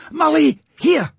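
high loud call. A narrator's reading. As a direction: shout her name across the water. Peter calls to her.

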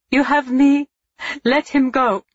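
high, loud pleading through tears; tearful cry. Acted. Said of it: "she repeated, tears beginning".

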